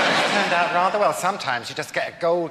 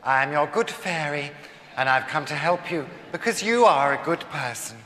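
shrill camp pantomime dame; 2 semitones lower, 4 dB louder than usual. Acted. Fairy godmother enters.

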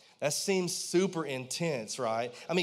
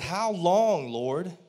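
pleading lament. Retold or imitated. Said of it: "He said".

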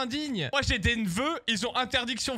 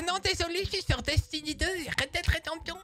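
high, put-on refusing voice; Mary; 6 semitones higher than usual. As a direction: mimic a friend making excuses in a high voice. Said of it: "Et je demande à Mary". (imitation aiguë d'une excuse)

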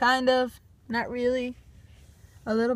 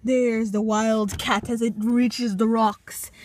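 nature documentary; slower than usual. Pretend. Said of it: "documentary of the wild Walmart cat".

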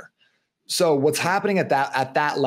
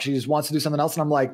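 normal talking voice

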